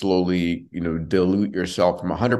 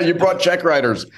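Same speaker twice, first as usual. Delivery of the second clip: said through a laugh; chuckling while speaking; 10 semitones higher, 4 dB louder than usual. Real, not acted. Laughing banter between hosts.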